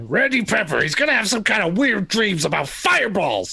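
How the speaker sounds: lightly imitating a friend's accent; Sullivan's accent. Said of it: "appropriate your accent there".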